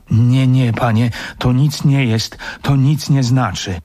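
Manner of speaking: worried, insistent pleading; anxious denial. Acted. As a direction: deny it with a touch of panic. Servant anxiously denies the signal.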